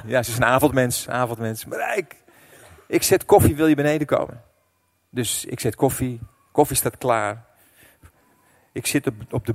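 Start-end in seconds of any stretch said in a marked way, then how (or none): 1.7-4.4 calling upstairs. Retold or imitated.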